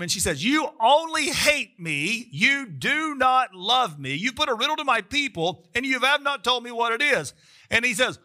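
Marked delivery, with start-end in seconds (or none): 0.4-7.3 mock crying plea. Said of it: "she's crying before him".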